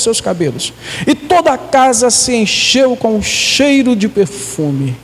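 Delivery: emphatic, measured storytelling from the Bible; scripture reading. Acted. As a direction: read the passage aloud, leaning on key words.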